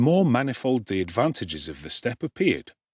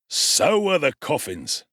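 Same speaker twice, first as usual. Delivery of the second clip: nearly laughing; 6 semitones higher, slower than usual. A narrator's reading. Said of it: "as near an approach to a laugh".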